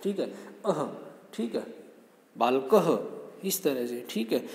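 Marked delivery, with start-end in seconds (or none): 0.6-0.8 soft breathy ह at the end of अह; visarga demo. Shown as a demonstration. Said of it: "विसर्गों की तरह बोलते हैं ह की साउंड के साथ". 2.4-3.5 बालकह drawn out slowly, ending in a breathed ह; visarga demo, very slow. Shown as a demonstration. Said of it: "ह की साउंड के साथ".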